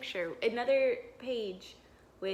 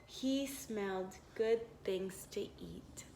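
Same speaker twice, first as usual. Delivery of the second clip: hushed storybook whisper; 3 semitones lower, 8 dB quieter than usual. A narrator's reading. Teacher reads to children, whispering the smell. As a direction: whisper it like a secret.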